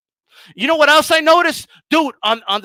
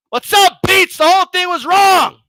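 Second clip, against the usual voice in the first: mock cheerful greeting; 6 semitones higher, 5 dB louder than usual. Imagined caller admitting he was wrong.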